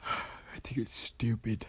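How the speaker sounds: slow unvoiced whisper. Real, not acted. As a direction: breathe it as a whisper. Whispered aside.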